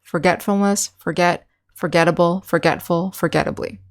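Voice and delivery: "Forgetfulness, forget, forgettable, forgetful, forgettably" each stressed on GET; second-syllable stress. Shown as a demonstration. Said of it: "put the accent on the second syllable".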